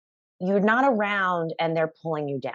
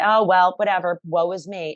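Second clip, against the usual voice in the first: mock self-pity; 3 dB louder than usual. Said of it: "give up and say".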